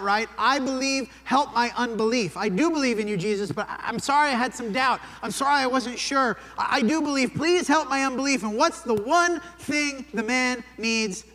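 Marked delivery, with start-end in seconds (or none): 0.4-8.4 pleading cry. Acted. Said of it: "father who cries out".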